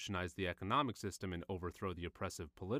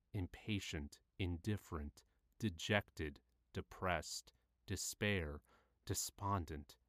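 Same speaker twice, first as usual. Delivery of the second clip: subdued downcast reading; 2 semitones lower, slower than usual. Acted. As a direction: let each word sink. Reads list of negative feelings.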